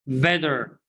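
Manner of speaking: better said bedder; American flap T. Shown as a demonstration. Teacher drills class on better as bedder. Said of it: "how do we pronounce this word".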